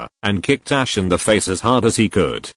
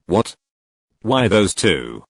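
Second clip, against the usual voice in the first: slow, puzzled question; ask, lost; confused; slower than usual. Acted. Gary puzzled by the grudge, mild confusion. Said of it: "Gary asked in confusion".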